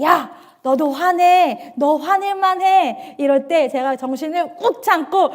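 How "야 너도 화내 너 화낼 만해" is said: tempting Satan. Retold or imitated. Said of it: "그럴 때 사탄이 저한테".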